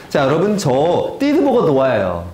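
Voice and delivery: 띠드버거 with ㄸ and ㄷ for ㅊ and ㅈ; tongue-tied lisp. Shown as a demonstration. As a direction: lisp 띠드버거 like a small child. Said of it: "제가 혀 짧은 소리를 했지만".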